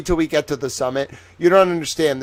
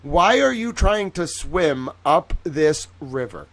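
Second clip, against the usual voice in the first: mock Mark Twain; slower than usual. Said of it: "And he's like".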